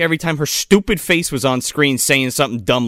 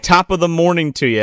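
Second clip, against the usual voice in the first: mock Irish accent; 3 semitones higher than usual. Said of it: "Nope, that's Irish".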